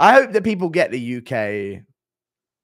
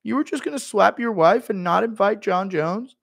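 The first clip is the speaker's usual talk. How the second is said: high whiny outrage; Schmitty impression; 9 semitones higher than usual. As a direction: whine it like he's left out. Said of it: "Impression of Schmitty".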